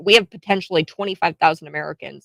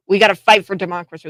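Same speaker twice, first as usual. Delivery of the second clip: mocking; 7 dB louder, faster than usual. Mocking Biden's line again.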